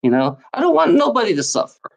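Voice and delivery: deliberate, spelled-out ranting to be understood; slow it down so he gets it; saying it slowly. Shown as a demonstration. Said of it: "I'm saying this slowly so you can understand me".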